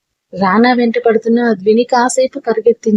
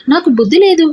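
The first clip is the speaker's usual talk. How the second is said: exasperated; 6 semitones higher than usual. A narrator's reading. Frustrated outburst. Repeats phrase, second louder.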